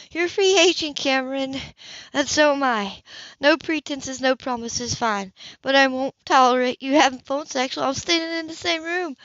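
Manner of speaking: cold ultimatum to a careless lover; angry Hannah. Acted. Hannah sets terms.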